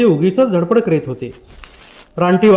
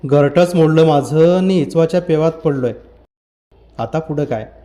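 dejected. Acted. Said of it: "तो खिन्न होऊन म्हणाला".

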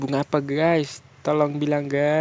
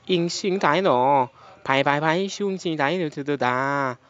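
fake Chinese. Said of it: "saya juga bisa bahasa Cina, guys. Tapi Cina K W".

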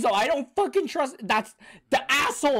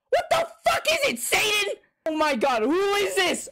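laughing disbelief; 7 semitones higher than usual. Real, not acted. Laughing shocked reaction.

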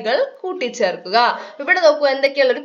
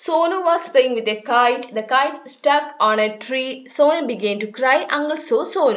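slow reading aloud; much slower than usual. Shown as a demonstration. Reads textbook passage aloud.

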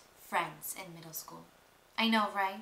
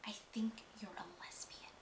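soft, sugary fake-sorry whisper; fake sympathetic hush; 10 dB quieter than usual. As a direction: pretend to be kind while being cruel. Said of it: "I was like".

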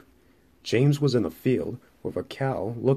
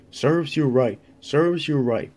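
mildly cross, a little raised; cross puffing; 4 semitones higher, 3 dB louder than usual. A narrator's reading. Engine telling off the troublesome trucks, mildly cross. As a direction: scold with a touch of crossness. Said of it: "puffed Thomas crossly".

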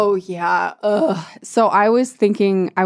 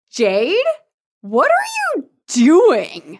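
high, slow, stunned disbelief; a boy stopped dead by what he sees; shocked Mark; 8 semitones higher, slower than usual. Retold or imitated. Friend imitating Mark catching Jade, stunned. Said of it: "He's so shocked".

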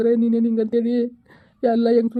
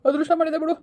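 mildly tearful, a little higher; 4 semitones higher than usual. Acted. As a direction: say it as if welling up, without full sobs. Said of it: "ಯಾಕೆ ಅಳ್ತಾ ಇದ್ದಿ?". (ಸ್ವಲ್ಪ ಅಳು ಧ್ವನಿಯಲ್ಲಿ)

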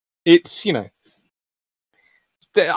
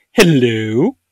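drawn-out hello, dipping then rising; second artillery greeting. Acted. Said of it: "sitting there to go".

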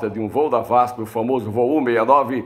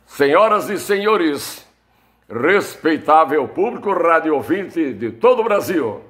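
loud carnival barker; 4 semitones higher than usual. Retold or imitated. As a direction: announce it like a circus ringmaster. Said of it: "e disse assim".

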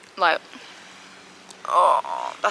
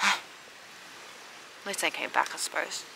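much softer, breathy and slow; sighing, deflated; 9 dB quieter, slower than usual. Real, not acted. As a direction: let the hope drain out. Disappointed sigh after they leave.

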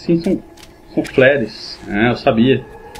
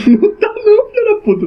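panicking gamer. Real, not acted. Scared laugh at game noise.

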